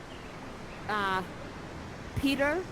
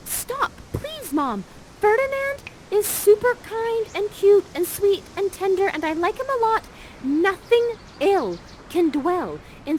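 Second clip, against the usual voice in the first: much higher and louder, frantic daughter; pleading shout; 10 semitones higher, 5 dB louder than usual. Acted. Miranda stepping between Prospera and Ferdinand, frantic high shout. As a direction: yell to stop your mom from hurting your crush. Miranda stops her mother.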